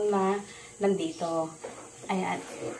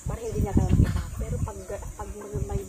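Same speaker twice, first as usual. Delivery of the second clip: whispering while hiding; 6 dB quieter than usual. Real, not acted. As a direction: keep it down so nobody hears. Hiding, waiting to throw.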